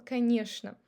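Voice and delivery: конечно said koneshno; конечно as kaneshna. Shown as a demonstration. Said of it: "the correct way".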